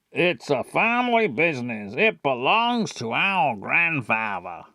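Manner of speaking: lightly put-on character voice. Shown as a demonstration. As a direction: say it in a mild singsong. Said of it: "that's how he's always talked".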